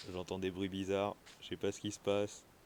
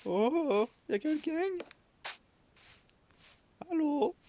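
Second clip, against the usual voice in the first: calling out. Acted. Calling out into empty house.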